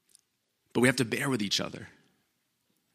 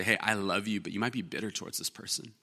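gentle caring; 8 dB quieter than usual. Retold or imitated. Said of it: "speak the truth in love to me".

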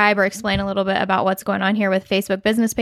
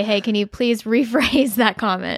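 laughing quote; slower than usual. Retold or imitated. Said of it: "do what John did and say".

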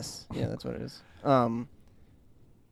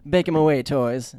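quoting Chief Wiggum; 3 semitones higher, 6 dB louder than usual. Retold or imitated. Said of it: "And then he goes".

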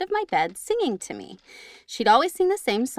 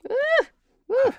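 spooked ooh; 3 dB louder than usual. Real, not acted. Reacting to ghost story.

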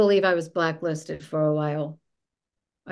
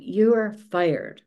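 retold screaming; 3 dB louder than usual. Boss fires her over the phone, mild retold screaming. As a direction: imitate a boss yelling, partly held back.

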